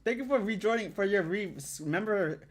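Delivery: high, loud grateful gush; real delighted thank you; excited thanks. Real, not acted. Thanking a subscriber.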